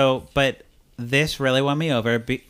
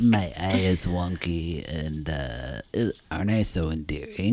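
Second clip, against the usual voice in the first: mocking; 7 semitones lower than usual. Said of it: "imitating Candace's story".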